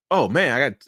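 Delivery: startled, squeaky what; mock shocked realization. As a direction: voice jumps high in disbelief. Retelling a sudden memory surfacing.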